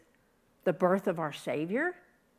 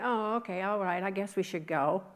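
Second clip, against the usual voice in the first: mock calm; 3 dB quieter than usual. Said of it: "You think they very just calmly went".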